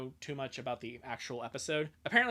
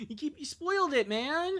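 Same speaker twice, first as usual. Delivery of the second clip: shouting; 11 semitones higher, 3 dB louder than usual. Real, not acted. Yelling at spoiler in chat.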